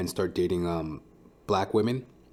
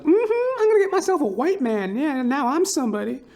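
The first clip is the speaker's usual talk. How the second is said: much higher, smug mocking woman's voice; 6 dB louder than usual. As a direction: sing it out like she's won the prize. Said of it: "These stupid black chicks are like".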